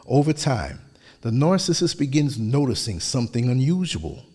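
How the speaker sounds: measured, even narration; steady, composed voiceover delivery; polished voiceover read. Acted. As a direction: read it like a calm documentary voiceover.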